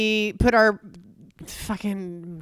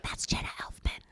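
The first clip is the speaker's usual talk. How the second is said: hushed aside, no voice; a mother spotting the celebrity; whispered recognition; 13 dB quieter than usual. Retold or imitated. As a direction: whisper it to your husband. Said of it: "turns to her husband and is like".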